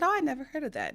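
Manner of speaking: lightly voiced cashier, surprised; mild surprised oh. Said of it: "And she said".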